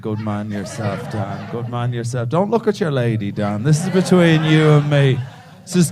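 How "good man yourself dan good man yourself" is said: hushed praise. Pretend. Hushed praise to audience member.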